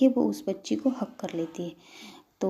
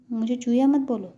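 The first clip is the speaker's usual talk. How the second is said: loud, higher-pitched objection; childish protest; 4 semitones higher, 7 dB louder than usual. Acted. Little girl to Ansh in a squabble, childish protest.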